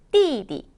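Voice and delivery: plunge on 띠, lightly tack on 디; fourth plus neutral tone. Shown as a demonstration. Teacher demonstrating tones, 띠디 sharp fall then light ending. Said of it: "확 떨궜다가 옆에 살짝 붙여주는 느낌".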